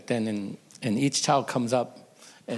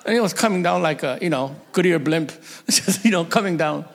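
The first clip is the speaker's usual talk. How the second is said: laughing through the telling, pitch up and louder; can barely get it out for laughing; giggling while describing the Goodyear blimp; 4 semitones higher, 5 dB louder than usual. Real, not acted. Laughing at the padded-up son.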